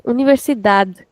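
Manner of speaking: "Universidad" ending in a plain "dad"; European pronunciation. Shown as a demonstration. Teacher showing students the European version, ending in plain D. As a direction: end "Universidad" on a d, no "j" sound. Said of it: "In European, we'll say".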